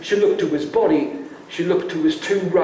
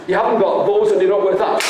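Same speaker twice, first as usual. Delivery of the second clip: fast mocking rattle; much faster than usual. Shown as a demonstration. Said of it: "Wait, wait".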